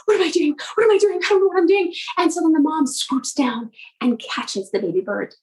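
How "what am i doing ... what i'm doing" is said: acted panic. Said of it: "he's panicking, and he's like".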